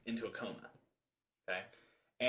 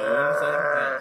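zombie moan; 6 dB louder than usual. Pretend. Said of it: "That was a little more Bigfoot".

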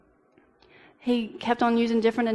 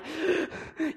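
sharp gasping intake, imitating a choking child; gasp for breath; 7 semitones higher, 5 dB quieter than usual. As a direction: gasp as if the air is gone. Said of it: "trying to gasp for breath".

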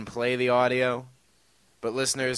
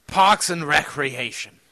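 put-on posh British accent. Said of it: "supposed to be posh British".

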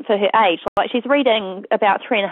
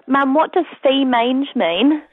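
light imitation of a four-year-old, slower; little child's accent; 4 semitones higher, slower than usual. Four-year-old asking mum, gently imitated child voice. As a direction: mum lisping her small daughter's question, a bit higher. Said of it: "in her four-year-old accent".

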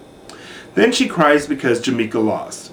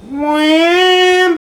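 very high, loud comic-book cry; mock heroic yell, much higher and louder; superhero shout; 5 dB louder than usual. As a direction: yell it like a cartoon hero bursting in. Dramatic superhero exclamation.

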